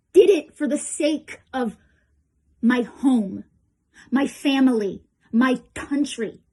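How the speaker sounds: loud, measured list with weighty pauses; impassioned declaration. Acted. Veteran telling troops why he fought, loud and impassioned. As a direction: land each cause with conviction.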